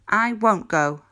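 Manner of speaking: fuerte y terco, a todo pulmón; bellowed. A narrator's reading. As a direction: ruge la negativa. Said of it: "bellowed the pig".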